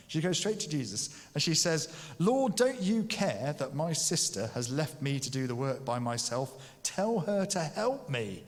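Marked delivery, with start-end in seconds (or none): 2.2-8.4 moaning complaint. Retold or imitated. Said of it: "she moans to Jesus".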